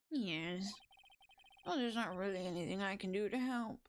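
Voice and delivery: lightly voiced old man. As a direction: play an older man, only slightly put on. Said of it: "He sounds so old".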